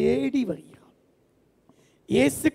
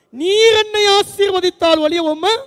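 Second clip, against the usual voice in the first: pleading cry; 7 semitones higher, 6 dB louder than usual. Acted. Jacob pleading with God.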